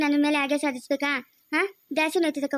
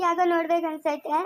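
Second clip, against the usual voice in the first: tearful longing. Acted. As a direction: let the tears break through. Misses her absent husband.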